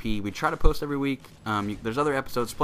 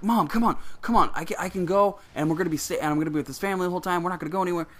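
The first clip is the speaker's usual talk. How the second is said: put-on high, whiny kid pleading, much higher; begging child; 8 semitones higher, faster than usual. Nine-year-old begging his mom to go to Mexico, high whine. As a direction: beg like a nine-year-old who wants it badly. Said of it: "I remember like".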